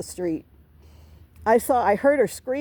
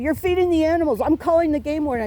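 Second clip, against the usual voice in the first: mock angry yelling; 7 semitones higher, faster than usual. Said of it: "And then she starts yelling at me".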